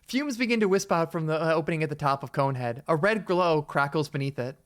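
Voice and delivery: measured read-aloud narrator; story narration. A narrator's reading. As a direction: narrate the scene evenly. Reads the game's narration aloud.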